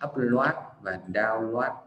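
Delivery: "upload" and "download" ending in "loát"; common mispronunciation. Shown as a demonstration. Teacher quoting learners' habit, "loát" in both words. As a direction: turn "load" into Vietnamese-style "lwat". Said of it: "Rất là nhiều người sẽ đọc".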